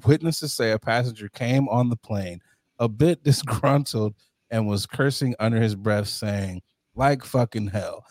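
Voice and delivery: low, even news-reader delivery; news article read. Acted. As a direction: read it out like a news report, deadpan.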